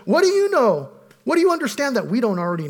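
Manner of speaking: high, loud scornful jab; mocking challenge. Eliphaz taunting Job, loud and scornful. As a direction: sneer the question at Job.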